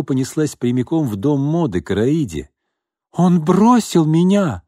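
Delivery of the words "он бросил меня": much higher, louder and slow, anguished; woman bursting in to tell his mother he left her, distraught cry. A narrator's reading. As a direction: burst in crying it out. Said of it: "крикнула она".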